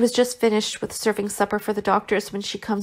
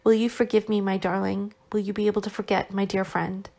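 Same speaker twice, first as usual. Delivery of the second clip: sweet nothings. Acted. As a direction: whisper it tenderly to a loved one. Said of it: "Vasya whispered tenderly".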